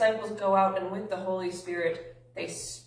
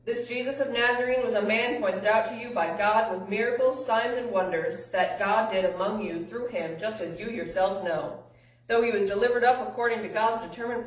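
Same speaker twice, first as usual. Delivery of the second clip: loud opening, then rapid emphatic reading; fast scripture reading; 3 dB louder than usual. A narrator's reading. Peter addresses men of Israel, fast emphatic read-aloud. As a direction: drive through the sermon text without stopping. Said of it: "as fast as I did".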